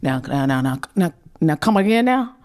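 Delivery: a hint of dad's voice, pitch climbing at the end; daddy impression. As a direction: play a puzzled dad asking to hear it repeated. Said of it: "Say it in his voice".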